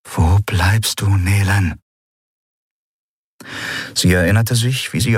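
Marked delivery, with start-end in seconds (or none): 0.1-1.8 a slow call that swells into a shout on the name. Acted. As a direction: call across the halls for Nelen. Prisoner calls out for someone.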